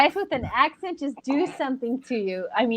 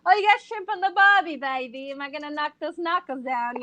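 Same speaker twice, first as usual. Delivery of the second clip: half-hearted, badly faked Australian accent. Woman teasing her Australian friend, botched Aussie accent. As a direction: toss out a clumsy Aussie impression. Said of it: "I don't know how to do the accent".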